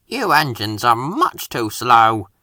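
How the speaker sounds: slow, drawn-out taunt; smug. Acted. Helicopter taunting the engines, slow and smug. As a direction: lean on it smugly. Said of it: "Harold continued".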